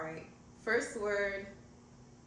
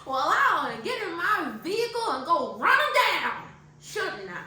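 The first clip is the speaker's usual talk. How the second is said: playing Harriet; 8 semitones higher, 7 dB louder than usual. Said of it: "Just make yourself a character".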